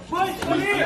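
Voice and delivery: loud urgent call. Acted. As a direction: shout to warn the boys. Calling out to the group. (malakas na sigaw)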